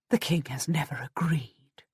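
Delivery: hushed, low, mostly whispered; stunned disbelief. A narrator's reading. Wife answers her husband's good news, stunned and hushed.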